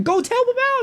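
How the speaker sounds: very high, insistent repeated order; exasperated yell. Retold or imitated. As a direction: shout it at him, fed up.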